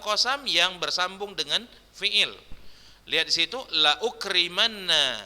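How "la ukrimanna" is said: "la ukrimanna" with a clear glottal break after "la"; careful "la ukrimanna", la held apart from ukrimanna; hamza pronounced. Shown as a demonstration. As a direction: sound the hamza in "la ukrimanna", la then uk. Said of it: "ditulis dan dibaca".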